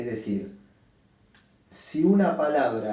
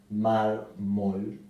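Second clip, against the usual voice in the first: mármol, MÁR clearly stressed, rising end. Shown as a demonstration. Teacher repeating mármol after naming its stress. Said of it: "se acentúa en la penúltima sílaba".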